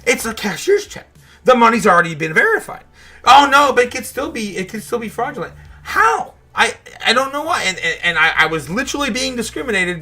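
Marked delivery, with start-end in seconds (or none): 3.2-5.5 mocking the bank. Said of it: "my bank said". 5.8-6.3 high, sharp disbelieving how; can't believe the bank's reasoning; incredulous. Real, not acted. Vlogger baffled by his bank's fraud hold, incredulous.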